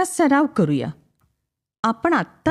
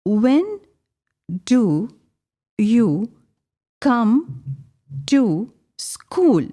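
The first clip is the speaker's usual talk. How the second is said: slow teacher question; much slower than usual. Shown as a demonstration. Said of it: "मी एकेकाला विचारणार आहे".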